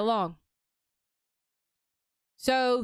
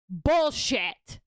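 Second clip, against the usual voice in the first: shouted bullshit. Real, not acted. Shouting at the post.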